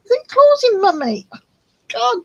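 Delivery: high loud yelp at the claws; sudden high pained squeal. Real, not acted. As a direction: cry out as the claws dig in. Cat's claws digging in.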